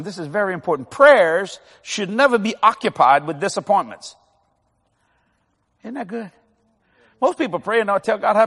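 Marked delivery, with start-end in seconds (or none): 0.9-4.2 dictation. Shown as a demonstration. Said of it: "write this down".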